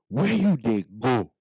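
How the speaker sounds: slow, careful "Where you dey go?" with a Nigerian Pidgin lilt; slow Pidgin repeat. Shown as a demonstration. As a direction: repeat it slowly for learners to copy. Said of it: "I'll repeat it again".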